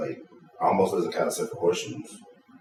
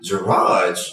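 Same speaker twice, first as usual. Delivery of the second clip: mock disbelief; 9 semitones higher, 4 dB louder, much slower than usual. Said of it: "piss me off ... her saying gar".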